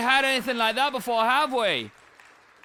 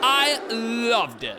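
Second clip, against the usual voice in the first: mock Australian judge. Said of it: "You sound like you're from Australia".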